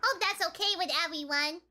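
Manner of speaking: put-on cutesy baby talk voice; sweet, cutesy anime girl voice; Uwu voice. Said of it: "I have to talk in Uwu voice".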